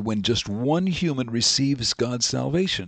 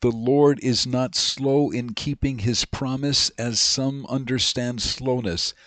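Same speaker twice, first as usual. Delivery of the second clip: scripture reading. Acted. Reads Second Peter aloud.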